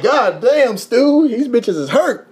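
high, drawn-out words through laughter; real laughter breaking into the words; laughing disbelief. Real, not acted. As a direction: crack up while exclaiming to a buddy. Cracking up retelling his reaction.

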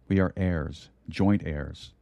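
hushed pulpit prayer to the Father; closing prayer. Acted. Preacher closing the sermon with thanks to God, hushed prayer.

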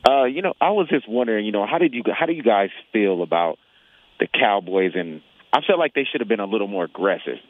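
speaking through a face mask; muffled voice behind a mask. Real, not acted. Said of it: "forgive me if I sound a little muffled".

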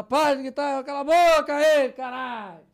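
loud yell in a changed voice, faking another passenger; disguised voice. Retold or imitated. Him pretending to be another passenger, disguised shout. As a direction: shout as if someone from the back rows. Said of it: "Fingindo que era outro lá de trás".

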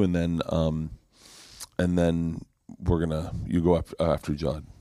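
low, subdued retold bad news; reluctant apology. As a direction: imitate a reluctant booker, voice dropped low. Club booker reluctantly breaking bad news.

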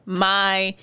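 slow, drawn-out gushing. Real, not acted. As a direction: stretch every word out. Gushing about childhood show.

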